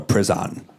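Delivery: "prison" said as priz-AHN; odd pronunciation. Retold or imitated. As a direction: say "prison" with a full "ahn" ending. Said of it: "She said, "Prison," which kinda bugged me".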